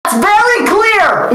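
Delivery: high, drawn-out yell without much volume; mock yell. Character yells back on hearing the insult, mock yell. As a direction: call it out high and stretched, hammed up. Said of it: "he hears that and he yells".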